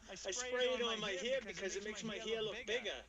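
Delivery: put-on Boston accent. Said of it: "I'm from Revere".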